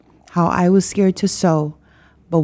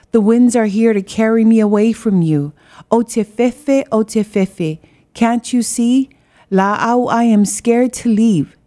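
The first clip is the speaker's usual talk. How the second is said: yelling; 4 semitones higher than usual. Acted. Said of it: "yelled out loud".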